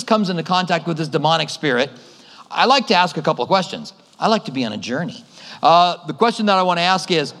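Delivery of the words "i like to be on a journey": joking aside. Pretend.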